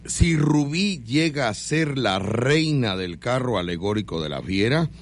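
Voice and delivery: slow, drawn-out proclamation; announcer reading a message. Pretend. Host reads a sponsor's message for Rubí, slow ceremonial announcer. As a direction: read the telegram out with mock ceremony.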